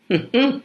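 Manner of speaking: brief high-pitched mock laugh; two little high notes of laughter; short high acted laugh. Reading a play scene aloud, short high laugh.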